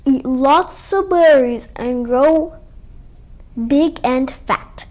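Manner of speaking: slow, breathy whispered mother bear. Acted. Bear mother urging her cub to eat for winter, slow and hushed. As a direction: coax the cub slowly.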